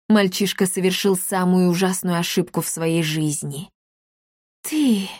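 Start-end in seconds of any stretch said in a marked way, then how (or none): 4.6-5.1 a higher, mildly shocked gasp of you. A narrator's reading. Milady recognizes the boy, mildly shocked. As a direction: recoil in shock on one word. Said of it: "потрясённо отшатнулась Миледи".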